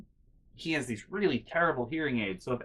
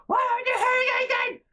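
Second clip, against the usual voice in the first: much higher, louder mock old woman; high, louder imitation of the grandma nagging; shrill grandma voice; 7 dB louder, faster than usual. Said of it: "she'll be like".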